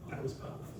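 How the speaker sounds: a stunned near-silent wow; awed whisper. Retold or imitated. Monk recalling his awe at a stranger's words, whispered. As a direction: breathe it out in a hushed, awed whisper. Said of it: "I was like".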